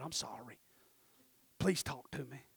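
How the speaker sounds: low, very soft plea; meek apology to God. Retold or imitated. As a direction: say it small and contrite, very quietly. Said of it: "so I go back to God".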